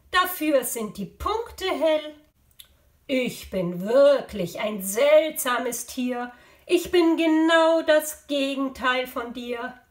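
lively, emphatic storybook animal voice; curious animal character. Acted. Strange animal challenging Jascha with a riddle, playful character voice. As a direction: play a talking animal for children.

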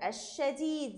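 الشديد with the shin held long and doubled, slightly slow. Shown as a demonstration. Teacher modelling the doubled shin in الشديد for the class. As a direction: lean on the shadda in الشديد. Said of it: "احنا ضاعفنا نطق حرف الشين".

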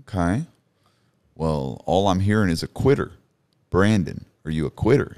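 loud, challenging voice of God; firm, weighty divine questioning; deep, majestic voice. Retold or imitated. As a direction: confront him like the Creator. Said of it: "in this very deep, majestic voice".

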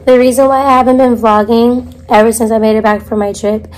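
rough, hoarse lost voice; raspy speech after losing voice. Real, not acted. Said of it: "Please bear with me if I sound crazy".

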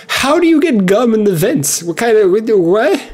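high, drawn-out incredulous questioning; baffled disbelief. Acted. Someone questioning gum in the vents, high incredulous disbelief.

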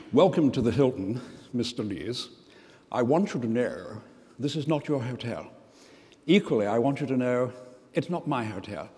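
snobbish British hotel manager, measured with pauses; lightly mock upper-class British formality; very British accent. Manager welcomes Mister Lees to the Hilton, very British accent. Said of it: "very British, you know, spoke that kind of accent".

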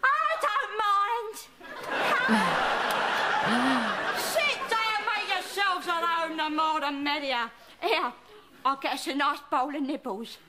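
a cantankerous old London nan, put-on voice; put-on Cockney nan. Nan scolding her grandson, in a put-on old Cockney voice. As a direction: play the grumpy nan who wants no presents. Nan greeting daughter's boyfriend.

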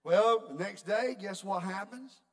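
preacher teasing the congregation, slow and loud; loud, slow build-up. Real, not acted. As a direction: draw it out big and loud.

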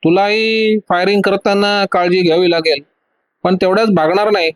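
mild shout of a villain's threat. Acted. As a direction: threaten him across the deck. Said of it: "तो ओरडून म्हणाला".

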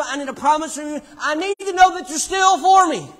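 high, loud preacher's cry, climbing to a shout; full-force preaching. Real, not acted. Preacher recounting his plea to God, impassioned shouting. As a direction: drive it home at full volume.

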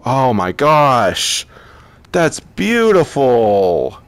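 real gasping delight; awestruck. Real, not acted. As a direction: draw it out, stunned by the beauty. Awestruck by game's new graphics.

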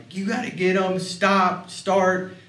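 high, frantic half-shout; panicked mother yelling. Retold or imitated. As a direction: imitate the wife shouting orders at the kids in a panic. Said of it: "So she's losing it".

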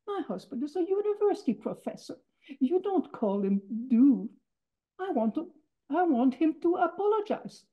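a wife insulted on her husband's behalf; indignant demand. Retold or imitated. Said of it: "My mother recognizes him and says".

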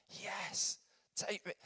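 high-pitched mock eagerness; eager crowd. Crowd answers the rabbi's invitation, eagerly.

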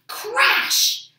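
loud, high storybook sound word; exclaimed crash. A narrator's reading. Narrator imitates the giant falling from beanstalk, loud exclamation. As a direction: burst out with the crash.

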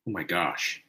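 soft, low sigh of contentment; sighing awe. Real, not acted.

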